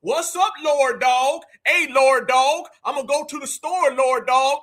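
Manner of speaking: exaggerated "Lord Dog" talk in a parody Black American accent; mock his fake Black American accent, punching each "Dog"; mock Black American slang accent. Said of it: "We don't talk like that to each other".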